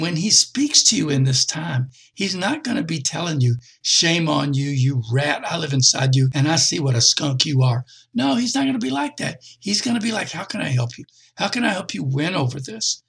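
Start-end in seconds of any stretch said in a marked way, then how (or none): 3.8-7.9 mildly scolding mock condemnation; critical judge. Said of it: "his voice is not a critical voice". 10.3-13.0 friendly voice. Acted. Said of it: "It's the voice of a friend".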